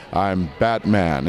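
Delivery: slow low heroic read. Shown as a demonstration. Another low take for the director. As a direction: drag it out deep. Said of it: "higher up".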